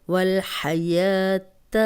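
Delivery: والحیات with the یا held two counts; slow recited demo. Shown as a demonstration. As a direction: recite والحیات slowly, stretching یا two beats. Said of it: "اس کو دو حرکات لمبا کریں گے". (والحیات، یا کو دو حرکات لمبا کر کے)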